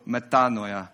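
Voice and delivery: attempted Greek word in an odd accent; weird accent. Real, not acted. Preacher trying the Greek word for repentance, weird accent. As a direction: say it slowly in an off, not-quite-Greek accent. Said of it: "I said that with a weird accent".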